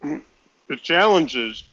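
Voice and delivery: talking through a mouthful; words round a bite of food; mouth full. Real, not acted. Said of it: "pardon me while I speak with my mouth full".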